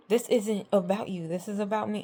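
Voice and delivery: imitated outburst, moderately heated; flipping out. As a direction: retell his angry protest, mildly worked up. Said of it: "like, flipping out again".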